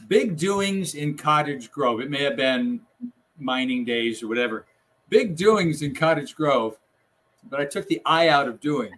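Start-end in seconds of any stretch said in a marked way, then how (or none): 0.1-2.0 slow headline delivery; headline read. Retold or imitated. Producer quoting the headline as intended, slow newsreading. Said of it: "that was supposed to say". 5.1-6.8 slow headline delivery; headline read. Retold or imitated. Producer quoting the headline as intended, slow newsreading. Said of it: "that was supposed to say".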